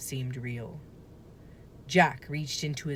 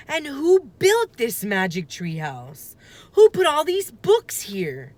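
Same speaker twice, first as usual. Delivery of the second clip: higher and louder, building up; excited questions; 9 semitones higher, 9 dB louder than usual. Acted. Jack firing questions about the treehouse, excited. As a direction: pile on the questions.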